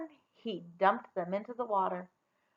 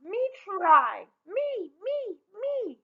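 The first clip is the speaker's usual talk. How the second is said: high, loud eager yelling; 10 semitones higher, 5 dB louder, much slower than usual. A narrator's reading. Rella begging to try the clog, high yell. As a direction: shout to be picked.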